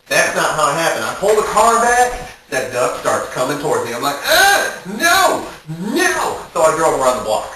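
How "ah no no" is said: frightened scream. Retold or imitated. Duck rushes at his car, high scared shriek. Duck charging toward him.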